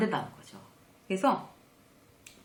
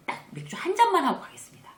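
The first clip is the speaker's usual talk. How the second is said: eager polite plea; 11 semitones higher, 4 dB louder than usual. Retold or imitated. Asking the boss to leave early.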